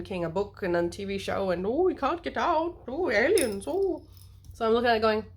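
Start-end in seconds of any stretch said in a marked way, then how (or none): 1.7-4.0 higher, wavering mock alarm; hammed-up sci-fi fright; mock panic. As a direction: wail it in pretend dread. Mock panic of TV show characters.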